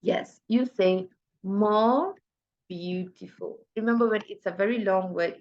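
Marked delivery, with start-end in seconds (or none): 0.0-3.6 slow correct answer. Shown as a demonstration. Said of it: "Which is right?".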